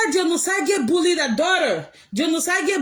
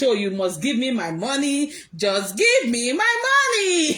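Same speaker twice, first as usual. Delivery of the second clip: mock her begging for the money; mimicking Priscilla. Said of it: "Priscilla will come out".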